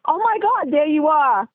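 retold high-pitched squeal of amazement; excited friend. Friend spotting her movies on TV, imitated high and excited.

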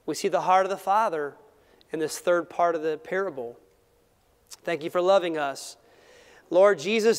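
earnest pastoral prayer. Acted. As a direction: pray it sincerely, unhurried. Closing prayer.

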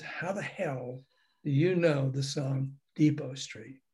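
slow, understated astonishment; retold disbelief. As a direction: draw the question out in mild disbelief. Retold astonished question, slowed right down.

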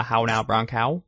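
prim precise elocution. Shown as a demonstration. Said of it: "What was that voice thing".

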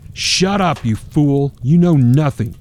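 a hammed-up angry yell; screaming father. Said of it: "quickly screamed".

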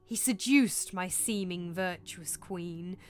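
slow, swelling lament of a murdered king; drawn-out spectral agony, dying to a breath; anguished ghost. Acted. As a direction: wail the horrors, drawing out the words. Ghost recounts his murder.

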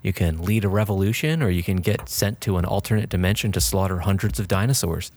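dramatic game trailer read; announcer voice. Acted. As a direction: sell the worlds like a trailer. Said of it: "yeah, I'm getting into it now".

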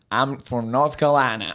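amateur attempt at a Southern accent; lightly put-on North Carolina Southern twang. Shown as a demonstration. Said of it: "in a Southern accent?".

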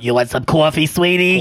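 hoarse New York waitress asking about coffee; New York diner waitress calling a customer sweetie; New Yorker accent. Retold or imitated. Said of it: "my hoarse voice and the New Yorker accent".

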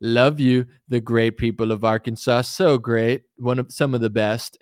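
lightly imitated rally flattery; a hint of a politician pausing for applause; Donald Trump. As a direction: work the crowd with spaced-out praise. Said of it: "When I listen to Trump talk, like, I notice".

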